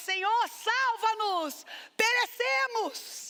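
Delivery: desperate, high-pitched crying. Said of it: "parece que ele tá gritando".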